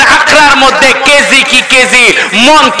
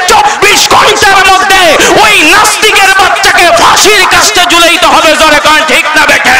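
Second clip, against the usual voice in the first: impassioned rally sermon to a crowd; fiery preaching; 4 semitones higher than usual. Real, not acted. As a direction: preach with full force, driving each demand home.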